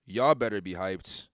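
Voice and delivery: real excitement, loud and emphatic; hyped. Real, not acted. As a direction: punch it out loud, hyped for what's coming. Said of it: "I'm, I'm hyped".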